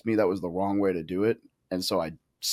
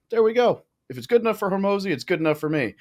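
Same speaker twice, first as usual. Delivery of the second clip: high, louder burst of triumph, settling a little; retold vindication; 11 semitones higher, 4 dB louder than usual. Guest retelling seeing a mentor's calendar, retold vindication. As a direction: exclaim it as if finally proven right.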